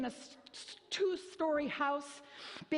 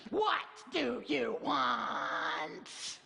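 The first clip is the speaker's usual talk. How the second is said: irritated warning; much slower than usual. Shown as a demonstration. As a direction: make clear they'd better not ask. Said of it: "making it perfectly clear that you better not ask me".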